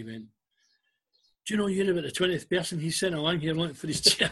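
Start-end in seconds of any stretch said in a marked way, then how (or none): 1.5-4.3 loud, raised exasperation breaking into laughter; mock outburst, higher and louder, dissolving in laughs; laughing retold complaint. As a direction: retell the grumble, cracking up as it builds. Retold kit man's complaint, laughing through it.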